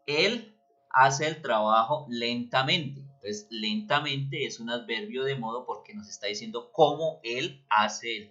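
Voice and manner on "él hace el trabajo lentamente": slow, drawn-out example sentence; said slowly. Shown as a demonstration. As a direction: stretch it out slowly as a demo. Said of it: "si yo digo". (frase de ejemplo dicha despacio)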